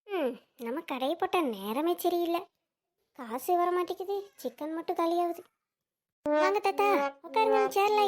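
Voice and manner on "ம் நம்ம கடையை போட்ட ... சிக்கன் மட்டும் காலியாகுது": soft, dejected complaint to oneself; grumbling aside. Acted. Shopkeeper laments to herself over unpaid chicken, quiet grumbling. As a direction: complain under your breath.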